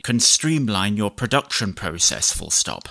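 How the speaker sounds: measured dictation, punctuation spoken aloud; slow dictation with punctuation. Shown as a demonstration. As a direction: dictate to the computer, clear and even. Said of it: "I'll do some basic dictation".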